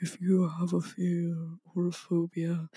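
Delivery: Haunted Mansion narrator voice; spooky hypnotist impression. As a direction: imitate an eerie, hushed hypnosis guide. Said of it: "it kinda sounds like Haunted Mansion".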